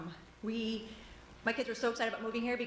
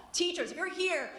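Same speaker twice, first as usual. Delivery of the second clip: loud, high angry call; shrill anger; 5 semitones higher, 3 dB louder, slower than usual. Real, not acted. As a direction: shout it at the room. Calling on teachers to boycott.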